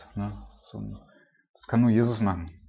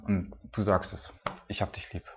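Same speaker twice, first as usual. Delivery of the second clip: tearful whisper; 6 dB quieter than usual. Retold or imitated. Peter, near tears, telling Jesus he loves him, whispered. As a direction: let it fall to a breathy whisper, close to crying. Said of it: "fängt bestimmt an zu heulen".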